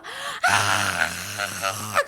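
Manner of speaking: long-drawn mock scream; acted scream. Healed lepers starting to yell, drawn-out scream. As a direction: let out one long cry of amazement. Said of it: "소리 지르기 시작했어".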